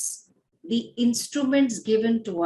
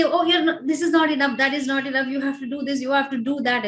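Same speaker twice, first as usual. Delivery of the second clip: lightly acted inner critic, running on without pause; mock self-critical; 3 semitones higher, much faster than usual. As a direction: rattle off mild self-reproaches, starting slightly raised and settling. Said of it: "for us to become self-critical".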